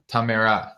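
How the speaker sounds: Tamara tried as tah-MAIR-uh; recalled pronunciation. Real, not acted. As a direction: try out Tamara with stressed MAIR. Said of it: "wait, I forgot it already".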